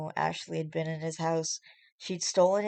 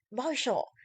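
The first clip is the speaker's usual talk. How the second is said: higher indignant cry of his name; angry shout; 7 semitones higher than usual. Acted. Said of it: "Ooh, she was pissed".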